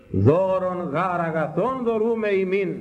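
slow, high, drawn-out proclamation; intoned scripture. Acted. Preacher proclaiming the second verse to believers, solemn intoning. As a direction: intone the verse solemnly, stretching each word.

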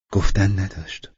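dismissive words, whispered. Acted. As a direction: shrug it off in a hush. Intimate talk in the dark.

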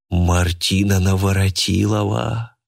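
breathy. Acted. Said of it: "с придыханием произнёс Сёма".

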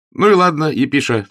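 high, loud, cordial reassurance; chummy, upbeat consolation; hearty. A narrator's reading. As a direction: brush it off good-naturedly. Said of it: "сердечно заметил он".

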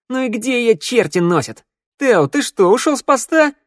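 high, loud scolding outburst; angry growl. A narrator's reading. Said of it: "девушка зарычала". (сердито, рыча от возмущения)

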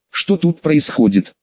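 usual speaking voice

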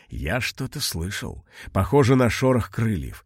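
understated scared murmur; frightened whisper. Acted. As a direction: hush it, half scared. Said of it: "испуганно прошептал старик".

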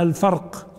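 الفرق said "al-farq", r closed straight onto q; sukun on ra. Shown as a demonstration. Teacher demonstrating the narrated variant, الفرق as "al-farq". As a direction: leave the r in الفرق vowelless: farq. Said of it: "فرواه بسكون الراء".

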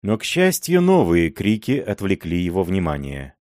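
ordinary delivery, nothing marked

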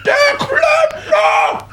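drawn-out, high, strained wail; last gasp of a collapsing old man; desperate cry. Acted. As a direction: stretch the word slowly into a dying shout. Exhausted plumber's last cry.

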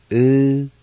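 teacher modelling U-do-li-ha; model pronunciation. Shown as a demonstration. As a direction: say U-do-li-ha crisply, as the model. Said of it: "And it's pronounced like this".

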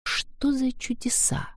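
high, breathy inner whisper; astonished whisper. Acted. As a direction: wonder to herself in a whisper. Her inner astonished thought.

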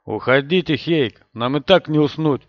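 forced firmness, steady and set; firm voice. Acted. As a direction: sound firm while afraid. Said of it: "постарался говорить твёрдым голосом".

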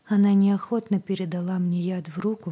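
usual speaking voice

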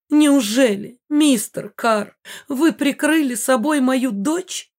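high, slow, gushing astonishment; amazed mother. A narrator's reading. Mother learns мистер Карр shielded her daughter, high amazement. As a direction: marvel grandly, stretching the words upward.

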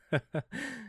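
short, slightly merrier laugh; brighter laugh. Acted. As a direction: let a bit of fun into the laugh. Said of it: "Теперь чуть веселее смех был".

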